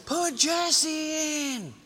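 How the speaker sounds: high, extremely drawn-out holler; long mock yell; imitated yell. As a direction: stretch every word like a mom calling from the stands. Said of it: "a lady would yell".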